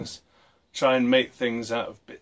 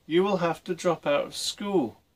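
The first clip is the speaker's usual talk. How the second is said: father shouting; 7 semitones higher than usual. A narrator's reading. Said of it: "his father shouted".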